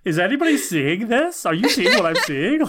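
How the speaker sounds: incredulous Glory. Retold or imitated. Imitating Glory looking around.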